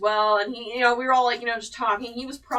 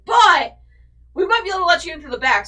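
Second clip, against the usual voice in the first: much higher, louder and fast; staff lady; 8 semitones higher, 10 dB louder than usual. Retold or imitated. Staff lady tells her about the back door, loud and fast. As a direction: rattle it off like a brisk staff lady.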